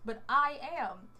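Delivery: slow, deliberate retort to a professor; measured, pointed reply with a touch of attitude; pointed comeback. Retold or imitated. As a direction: push back slowly, word by word. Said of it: "there was just the attitude".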